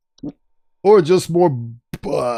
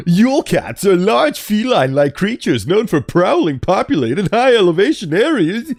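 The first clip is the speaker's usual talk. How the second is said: higher lisping know-it-all; nerd voice; 8 semitones higher than usual. Pretend. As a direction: read it like a nasal nerd. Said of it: "do a proper nerd voice".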